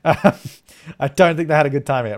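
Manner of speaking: amused, drawn-out repeat; laughing repeat. Real, not acted. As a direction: chuckle as you say it again.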